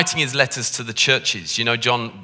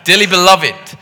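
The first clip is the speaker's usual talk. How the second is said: louder, posh Anglican vicar's delivery; posh Anglican accent; 3 semitones higher, 6 dB louder than usual. Shown as a demonstration. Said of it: "my posh accent can come in now, and I can make this sound all very Anglican".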